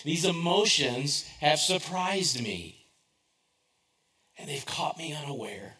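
slow, deliberate quoting of the psalm; slow scripture quote. Acted. Pastor reading the psalmist to the congregation, slow and weighty. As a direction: lay the psalm's words out slowly. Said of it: "This is what the psalmist says".

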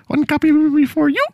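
lightly voiced stuffy lady official reading a notice; mock official lady. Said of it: "I've turned into a woman at this point".

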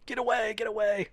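high little mock-panicked voice; playful high-pitched pretend alarm; fleeing germs. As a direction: squeal it like tiny germs escaping.

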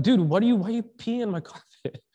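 loud, high burst with a laugh creeping in; stunned, half-laughing outburst; shocked disbelief. Acted. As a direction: act out an incredulous protest to a buddy. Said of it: "You'd be in shock".

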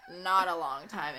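LONG TIME drawn out slowly; stress on long time. Shown as a demonstration. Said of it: "Emphasis on long time".

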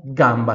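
gamba in careful Italian; Italian model word. Shown as a demonstration. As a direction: say gamba with a wide open a. (pronúncia italiana de gamba)

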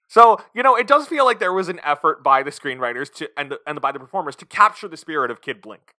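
ordinary talk

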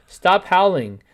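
loud shout at a teammate. A narrator's reading. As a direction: call it out loudly. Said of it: "Cap shouted".

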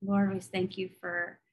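earnest spoken prayer to God. Acted. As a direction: pray it sincerely for the listeners. Leads a closing prayer.

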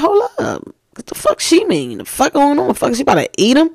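high, startled mock panic as a child; shocked disbelief. Recalling her childhood shock at what the daughter said. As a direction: yelp it out like a scared kid.

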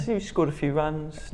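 slow, soft mock London voice; London accent. Shown as a demonstration. Testing a slow, soft London accent for a cricketer. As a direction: try the line in a London accent, slowly. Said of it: "No, that's too London".

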